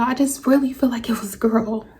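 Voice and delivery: hushed, aching whisper; tearful whisper. Real, not acted. Grieving mother, in tears.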